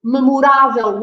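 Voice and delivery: "memorável" with the stressed á leaned on. Shown as a demonstration. Teacher showing learners where the accent falls, stress on the á of "memorável". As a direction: hit the third syllable of "memorável". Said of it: "an accent on the A".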